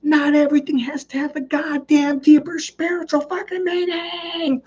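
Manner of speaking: very high strained rant; hammed-up exasperated squeal, held long at the end; mock blow-up. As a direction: imitate a husband boiling over, voice squeezed way up. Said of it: "He literally spun like the Tasmanian devil".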